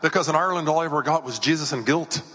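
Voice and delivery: imitated Irish visitor; Irish accent. Irish visitor explaining why she stayed away, Irish accent. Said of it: "she's Irish".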